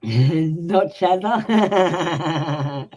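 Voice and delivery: laughing through the words, slowed right down. Real, not acted. Laughing at the Aussie nickname for her, amused. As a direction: giggle it out, amused.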